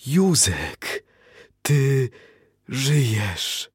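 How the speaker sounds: high, tearful-joy exclamation; can't believe he's alive; overjoyed disbelief. Acted. Wife finding her missing husband alive at home, overjoyed.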